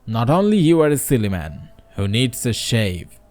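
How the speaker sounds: reading a fable aloud to the class, lightly voicing the characters; story narration. A narrator's reading. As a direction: tell it like a storyteller to students. Teacher reads a story aloud.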